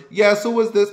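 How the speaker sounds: put-on high, loud puzzled old lady; confused granny. Confused grandma on the phone, high and loud. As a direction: sound lost, pitch way up. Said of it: "My grandma's".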